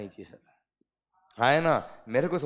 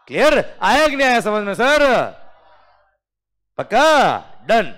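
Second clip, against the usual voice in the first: higher, louder call to the class; loud check-in; 7 semitones higher, 12 dB louder than usual. Real, not acted. Teacher calling out to class.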